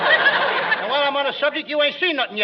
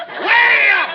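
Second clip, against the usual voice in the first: loud, high-pitched frightened insistence; sudden high holler; emphatic shout; 5 semitones higher, 6 dB louder than usual. Acted. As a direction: yell it out in comic panic. Insists on daylight, not midnight.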